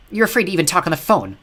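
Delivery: mean, taunting snarl; snarly catfight voice. Acted. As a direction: sneer it like a catty insult. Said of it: "same snarly catfight voice".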